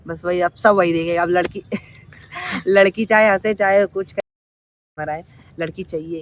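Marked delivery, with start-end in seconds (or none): 1.7-5.2 loud, slow, laughing through the words. Real, not acted. Joking with his friend about girls, laughing. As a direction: break into a laugh mid-sentence.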